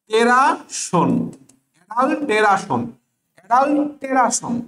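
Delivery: অ্যাডাল্টেরাশন drilled with a clear "te-ra-shon"; spelling pronunciation. Shown as a demonstration. Teacher drilling the memory aid, spelling pronunciation. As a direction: sound out অ্যাডাল্টেরাশন as adal-te-ra-shon. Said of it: "তো তুমি পড়বা কি জানো?".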